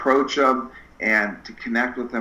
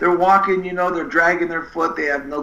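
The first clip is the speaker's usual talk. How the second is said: raised, dragging lifeless tone; mock zombie-like; 7 semitones higher than usual. Describing tired patients, a raised mock dragging tone. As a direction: drag the words like the walking dead.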